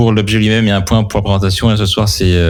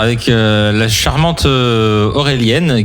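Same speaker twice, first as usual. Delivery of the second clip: radio show intro; slower than usual. Real, not acted. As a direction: present the show and its line-up like a radio host. (présentation d'animateur radio)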